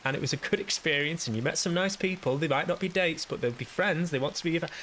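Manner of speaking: high, chirpy, upbeat consoling voice; sing-song upbeat pep talk; cheerful inner voice. Retold or imitated. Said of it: "the voice inside my head was going".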